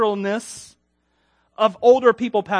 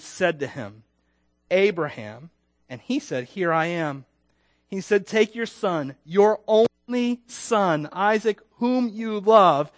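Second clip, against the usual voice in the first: scripture reading. Acted. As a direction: read the passage with weight. Reads Genesis 22 aloud.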